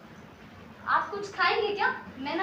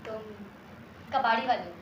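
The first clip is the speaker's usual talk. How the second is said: hesitant; 6 semitones lower, 12 dB quieter than usual. Acted. Awkwardly asks about his trade.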